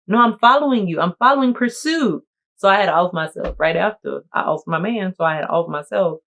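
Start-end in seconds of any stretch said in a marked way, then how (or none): 0.1-2.2 higher, louder threat; menacing widow. Pretend. Black Widow telling her dead husband she follows him, mock menace. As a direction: chase him down with glee.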